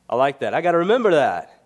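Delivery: eager to keep the new phrase; excited friend. Retold or imitated. Bronx friend delighted with leave and cleave, quick and loud. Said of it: "And he says".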